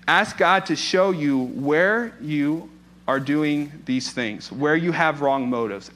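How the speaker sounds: drawn-out, deliberate delivery, leaning on "God"; slow emphatic. Shown as a demonstration. Preacher to church, slow, weighty first point. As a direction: spell out the first step slowly. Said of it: "Ask God to show you where your motives are wrong".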